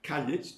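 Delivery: "Kalyet" said as two clear syllables, KAL-yet, with a rising end. Shown as a demonstration. Lecturer insisting the word is two syllables, careful "Kalyet". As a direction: split "Kalyet" into two distinct beats. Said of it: "two syllables".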